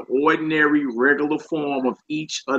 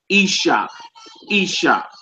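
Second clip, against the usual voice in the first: whispered Hebrew word; 4 semitones higher than usual. Shown as a demonstration. Teacher whispering the word isha to the class. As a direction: breathe out "isha" as a hushed example. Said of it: "you would say Eshet and not Isha".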